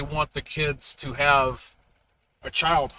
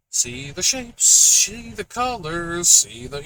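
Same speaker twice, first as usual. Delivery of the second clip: put-on reading to a toddler; 2 semitones higher, 3 dB louder, slower than usual. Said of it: "You know, like".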